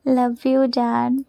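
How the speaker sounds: slow, tender love you. Real, not acted. Slowly telling her husband she loves him, tender. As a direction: say it slowly and lovingly.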